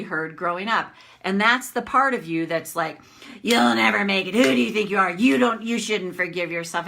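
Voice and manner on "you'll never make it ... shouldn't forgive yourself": a hint of a harsh critic, pushed louder; lightly voiced scolding bully; mock nasty inner critic jeering. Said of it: "It sounds like that".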